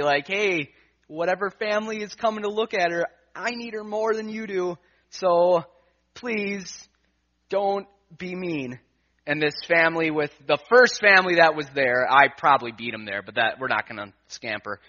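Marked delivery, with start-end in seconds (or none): 0.3-8.8 pleading. Retold or imitated. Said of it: "puppy dog eyes I can to say".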